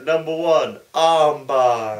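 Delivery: loud, punchy countdown of moves; Jericho promo impression. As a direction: bark it like a wrestler cutting a promo. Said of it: "I love his promo".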